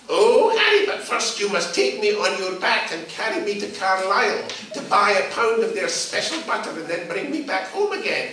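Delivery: put-on high, pleading old woman. Old woman telling Harry to carry her to Carlisle, high and wheedling. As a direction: wheedle like a bossy old lady.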